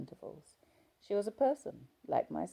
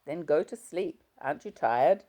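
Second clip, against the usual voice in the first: irritated husband; 7 dB louder than usual. Acted.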